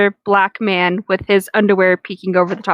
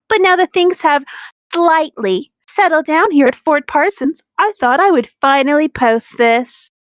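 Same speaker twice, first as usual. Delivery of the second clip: lightly voiced customer-service cheer, hollow underneath; dead inside voice; 4 semitones higher than usual. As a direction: read the author's note like a tired service worker, a bit higher. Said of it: "That's my dead inside voice".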